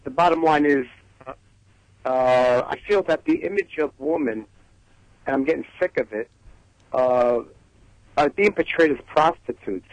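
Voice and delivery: heavy Brooklyn accent. Real, not acted. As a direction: talk in a thick Brooklyn accent. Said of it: "excuse my, um, heavy Brooklyn, uh, accent".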